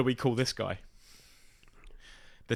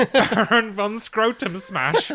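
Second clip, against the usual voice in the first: slow, drawn-out villain title; grand villain announcement; 3 semitones higher, much slower than usual. Pretend.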